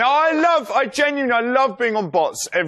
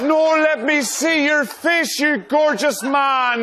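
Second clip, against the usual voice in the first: mock wooing voice; 3 semitones higher than usual. Wooing Andy in baby talk.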